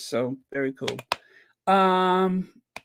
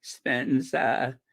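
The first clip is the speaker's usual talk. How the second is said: lightly imitated actress with quavering drawl; mock old-Hollywood actress voice; Katharine Hepburn; 4 dB quieter, much slower than usual. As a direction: draw out the name, dropping the final R. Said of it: "he sounds like Katharine Hepburn".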